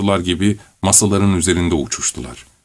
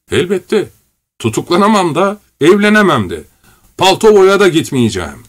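manic; 8 semitones higher, 4 dB louder than usual. A narrator's reading. Korotkov raving madly.

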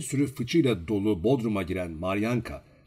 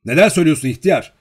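loud, fast, higher cry of protest; shocked exclamation; 6 semitones higher, 12 dB louder, faster than usual. A narrator's reading. Olenin protesting to the old man, crying out. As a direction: cry out in disbelief. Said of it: "diye haykırdı".

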